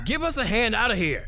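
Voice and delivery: desperate shout. Acted. Trapped man shouting up to the old man for help. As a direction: yell up at him, pleading.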